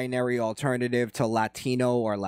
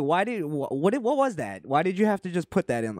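retold bafflement; 5 semitones higher than usual. Retold baffled reaction to friend's accent.

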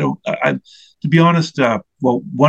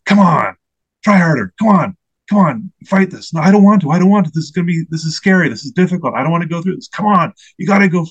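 higher, louder barking inner drill sergeant, pushing hard; 5 semitones higher, 4 dB louder than usual. Retold or imitated. Inner drill sergeant voice yelling at himself to fight, loud and high. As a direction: bark it like a drill sergeant driving a recruit. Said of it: "It's like a drill sergeant voice".

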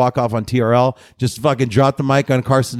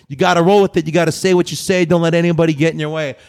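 wrestling promo; 2 semitones higher than usual. Real, not acted. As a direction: cut a promo like a pro wrestler. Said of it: "cutting a wrestling promo".

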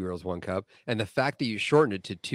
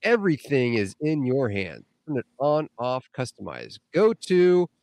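mock sales pitch; 3 semitones higher than usual. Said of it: "reading that in an accent".

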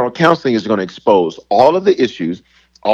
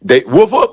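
mock dog bark; 5 semitones higher, 4 dB louder than usual. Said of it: "watch me".

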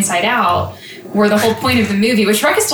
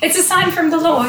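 sweet, high Southern church lady; 8 semitones higher than usual. Acted. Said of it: "it's your Southern church lady voice".

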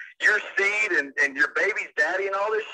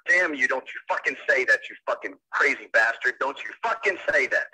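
real anger; 5 semitones lower than usual. Real, not acted. Husband enraged by caller's claim.

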